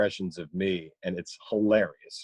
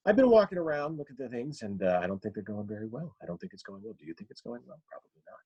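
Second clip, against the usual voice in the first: condescending, steadily fading doubt; Jason Bateman; faster than usual. Acted. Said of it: "that little bit of pattern there".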